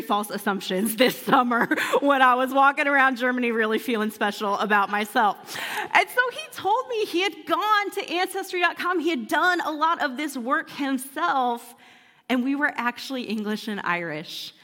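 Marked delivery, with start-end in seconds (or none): none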